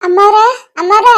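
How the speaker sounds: loud call with rising end. Acted. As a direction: hail the mistress of the house. Servant calls out to mistress.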